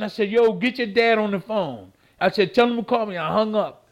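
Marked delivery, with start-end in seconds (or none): 0.3-1.9 louder, higher, barking the order; retold angry demand. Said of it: "So I started cussing". 2.5-3.2 louder, higher, barking the order; retold angry demand. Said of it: "So I started cussing".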